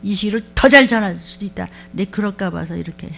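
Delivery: lightly voiced God chiding; mild mock divine rebuke; voicing God. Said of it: "나같이 말해".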